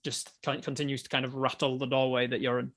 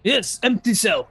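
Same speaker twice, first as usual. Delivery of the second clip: higher, loud, slow dopey guard; dim jailer; 7 semitones higher, 9 dB louder, slower than usual. Acted.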